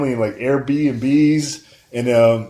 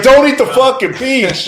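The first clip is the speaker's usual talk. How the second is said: mock yell at the screen, higher and louder; retold yell; 10 semitones higher, 7 dB louder than usual. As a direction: shout a warning at the movie. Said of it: "I yelled it".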